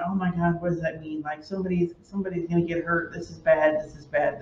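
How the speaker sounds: quiet panic in the car after hitting a bird; retold worried muttering. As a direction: fret to yourself while driving. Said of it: "freaking out ... going".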